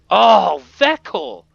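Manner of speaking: high, loud outburst; mock dismayed cry. Player is refused by Vekel, loud high mock dismay. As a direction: cry out as if let down.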